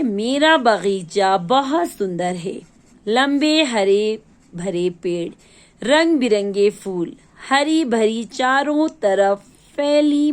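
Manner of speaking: slow, expressive story reading. A narrator's reading. Teacher reading a lesson story to children, slow and expressive. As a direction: read the garden's lines slowly, savouring each image. Reads story passage aloud.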